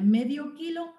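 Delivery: "medio kilo" slowly, as two separate stressed words. Shown as a demonstration. Lecturer explaining tonic words, "medio kilo" said as two words. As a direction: give "medio" its own stress before "kilo". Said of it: "son dos palabras separadas".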